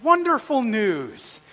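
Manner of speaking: mock delight, drawn out at the end; sarcastic cheer. Pastor hearing about personality test, sarcastic cheer. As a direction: feign enthusiasm for bad news. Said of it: "And I'm going".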